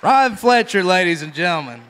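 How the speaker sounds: loud, high showman announce; announcing the act. Real, not acted. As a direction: introduce him like a star to the room.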